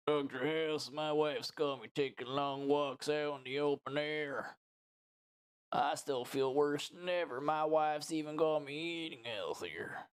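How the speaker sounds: lightly voiced complaining patient; patient Ernie. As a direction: play a put-upon patient, slightly drawn out.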